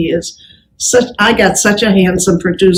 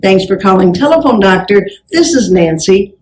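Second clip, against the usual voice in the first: phone greeting demo; 2 semitones lower than usual. Shown as a demonstration. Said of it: "Now identify yourself".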